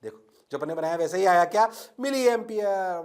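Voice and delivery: ordinary talk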